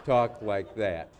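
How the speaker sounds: mock indignant, loud and drawn out; Hillary Clinton. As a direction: finish the worked-up senator's rebuke slowly and forcefully. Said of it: "she got really worked up".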